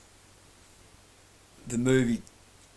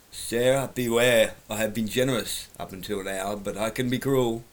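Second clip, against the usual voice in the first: bad acting. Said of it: "because I'm a terrible actor".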